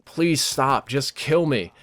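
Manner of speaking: imitated plea, pitch climbing partway through; begging. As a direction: beg for it to end, mildly acted. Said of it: "She's just begging".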